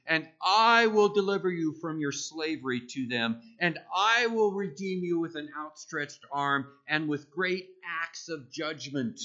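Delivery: loud, emphatic voice of God reading from scripture; emphatic declaration. Acted. God declares to the Israelites he will save them, emphatic. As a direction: declare it loudly, leaning hard on each I. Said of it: "consider how emphatically God declared to the Israelites".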